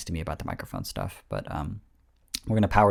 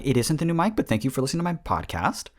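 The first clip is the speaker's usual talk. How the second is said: high mock reply; 6 semitones higher, faster than usual. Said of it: "I was just like".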